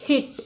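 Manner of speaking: हिट with a long "ee", as in English heat. Shown as a demonstration. Teacher showing the EA sound, हिट with long "ee". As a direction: model हिट clearly with the long vowel. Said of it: "ई अचा दीर्घ उच्चार होतो".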